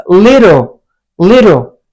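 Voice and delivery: LITTLE with a tapped T, like "li-dol"; American soft T. Shown as a demonstration. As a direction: soften the T in "little" to a quick D. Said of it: "like a soft D".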